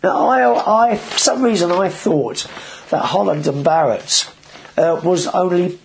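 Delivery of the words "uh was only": talking through hiccups; interrupted by a hiccup. Real, not acted. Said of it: "I'm hiccuping here".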